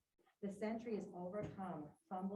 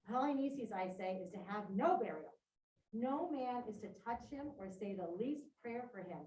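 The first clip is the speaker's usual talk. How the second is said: a lightly voiced king, firm and a touch louder; Creon's decree read aloud; 4 dB louder than usual. Teacher reading Creon's decree to the class, firmly declaiming. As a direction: read it like a ruler laying down the law.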